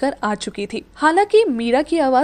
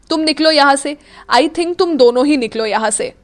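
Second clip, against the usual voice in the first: loud, curt order; fed up with both girls; angry dismissal; 3 semitones higher, 5 dB louder than usual. Acted. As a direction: throw them out firmly. Akshat orders them out.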